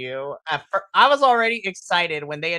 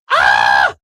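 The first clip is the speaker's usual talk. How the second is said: loud, sudden fangirl shriek; reliving a squeal of joy; girlish scream; 12 dB louder than usual. Retold or imitated. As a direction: scream with pure delight. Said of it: "audibly screamed like a little girl".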